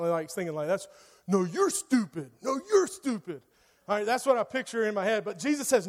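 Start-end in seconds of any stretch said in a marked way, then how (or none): 0.7-2.3 lightly voiced bratty kid snapping back; a hint of a sulky child trading insults; childish retort. Preacher imitating Jews bickering like a child. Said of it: "such a child". 2.4-3.4 put-on a touch higher bratty kid firing it back; mildly hammed-up schoolyard "No, you're stupid"; childish comeback. Preacher mimicking a childish comeback at Jesus. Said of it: "such a child".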